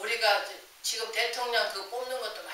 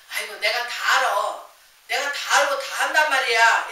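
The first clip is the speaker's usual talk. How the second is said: louder, boastful I-know-it-all retort; mock know-it-all; 7 dB louder than usual. Preacher mimics a proud know-it-all, loud and boastful. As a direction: brush everyone off like you know best.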